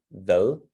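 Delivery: "vel" carefully articulated as a word by itself; really articulated. Shown as a demonstration. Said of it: "really articulate it".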